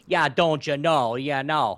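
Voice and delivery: slow prairie Canadian drawl; Saskatchewan accent. Retold or imitated. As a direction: imitate a Saskatchewan local, slowly. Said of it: "Saskatchewan is like".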